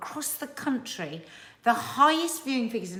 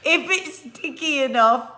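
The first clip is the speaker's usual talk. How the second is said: slow, drawn-out, louder ending; solemn mock expert; 7 dB louder, slower than usual. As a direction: deliver it like a grave order. Imitating the bomb disposal guy.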